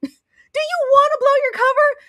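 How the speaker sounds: cracking up mid-scold; laughing scold. Retold or imitated. Scolding Daisy for being so obvious, high and laughing. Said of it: "Like, I said".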